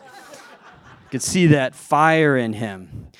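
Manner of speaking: slow, cool and smooth, a hint of a Spanish tennis star; Rafael Nadal. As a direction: savor it slowly, suave and relaxed. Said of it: "in a really cool, like, Rafael Nadal sort of way".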